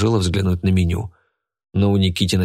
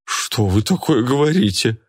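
frightened; 4 semitones higher than usual. A narrator's reading. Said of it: "перепугалась Рогнеда".

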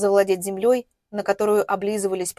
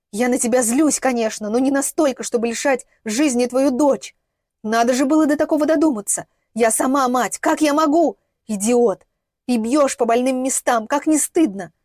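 mildly angry, raised reproach; indignant scolding; 3 semitones higher, 4 dB louder than usual. Acted. Mother rejects the accusation, indignant scolding. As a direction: scold him, hurt and exasperated.

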